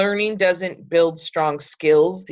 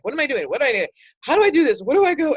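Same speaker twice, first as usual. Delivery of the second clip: flustered friend; 8 semitones higher, much faster than usual. Retold or imitated. Nervous friend imitated.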